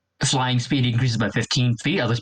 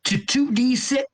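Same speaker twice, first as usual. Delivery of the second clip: excited; 11 semitones higher than usual. Real, not acted. Gleeful over dragon upgrade.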